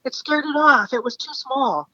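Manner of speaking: high-pitched, imitating an amused guide. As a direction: brush it off as a joke, voice lifted. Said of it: "he's, like, laughing".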